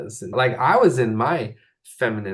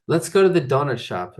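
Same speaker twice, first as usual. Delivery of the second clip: precise; 4 semitones higher, 4 dB louder than usual. Retold or imitated. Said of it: "like, precise".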